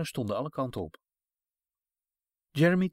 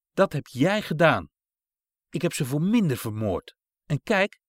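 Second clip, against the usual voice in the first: menacing threat; 3 semitones higher, 5 dB louder than usual. Acted. Cruel woman threatens the boy.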